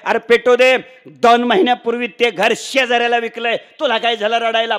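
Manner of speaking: loud, high-pitched dismissive retort; loud brush-off. Acted. Father tells crying son house was sold, loud dismissal. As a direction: wave away the son's tears at volume.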